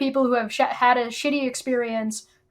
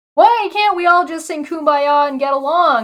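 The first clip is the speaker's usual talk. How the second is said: high, loud, preachy, condescending tone; 5 semitones higher, 6 dB louder than usual. Mocking a person who understands nothing, speaking to everybody, mock-condescending. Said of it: "He said condescendingly".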